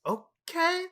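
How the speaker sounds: high, stretched-out okay; retold baffled compliance. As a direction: act out confused giving in. Retold bewildered compliance after screaming.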